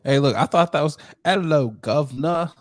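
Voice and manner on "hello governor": mock British accent, slower with a rising end. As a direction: draw out a cheeky mock British greeting. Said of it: "he got a British accent".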